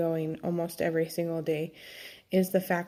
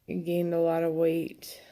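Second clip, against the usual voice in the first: whispering. Real, not acted. Confessing weight gain.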